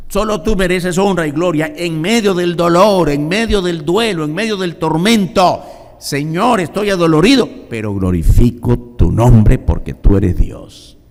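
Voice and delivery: high, loud preaching of praise in pain; fervent worship prayer. Pretend. David praising God in his grief, preached loudly. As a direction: cry out praise over the music.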